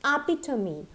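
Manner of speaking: EPITOME in four syllables, ending "mee"; correct pronunciation. Shown as a demonstration. Teacher introduces the next one, epitome ending in "mee". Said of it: "It is epitome".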